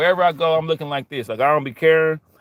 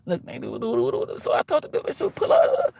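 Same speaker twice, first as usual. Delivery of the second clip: hushed casual storytelling; 4 dB quieter than usual. Retold or imitated. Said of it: "we be like".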